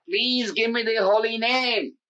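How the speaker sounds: an earnest, drawn-out entreaty; begging. Retold or imitated. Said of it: "he begged Lord Chaitanya".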